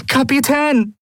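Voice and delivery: high, desperate cry to the captain; frantic high-pitched plea; desperate urging. A narrator's reading. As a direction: cry out urgently, voice pitched right up. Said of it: "drängte seine erste Offizierin verzweifelt".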